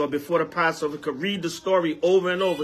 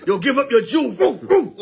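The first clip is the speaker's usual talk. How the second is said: playful barking "woo, woo", higher and laughing; mock dog bark; 4 semitones higher, 5 dB louder than usual. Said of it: "D M X barking at the person".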